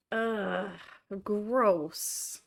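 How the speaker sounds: disgusted groan, then gross; annoyed, drawn-out ugh, gross. Real, not acted. Reacts to the time zone.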